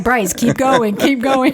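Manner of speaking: urgent urging. Retold or imitated. Urging son past room.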